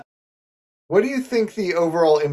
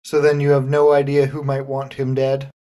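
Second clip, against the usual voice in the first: distracted detective. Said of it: "not really listening when he asked".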